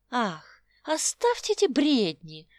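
lively interruption. Acted. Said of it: "живо перебила его Роза".

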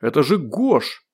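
slow, drawn-out exclamation; shouted recognition. A narrator's reading. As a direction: announce the name to those above. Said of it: "крикнул он наверх". (выкрик узнавания)

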